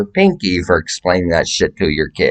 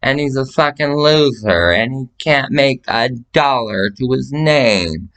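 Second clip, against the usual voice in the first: higher, scornful put-down; lightly voiced scornful rant; mock trash talk; 5 semitones higher than usual. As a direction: roast him to everyone. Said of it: "I hit it up".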